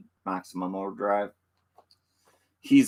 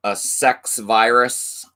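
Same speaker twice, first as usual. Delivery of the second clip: slow, louder tagline read; dramatic trailer line; 4 semitones higher, 6 dB louder, slower than usual. Acted. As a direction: announce it like a trailer hook. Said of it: "trailer tagline read twice".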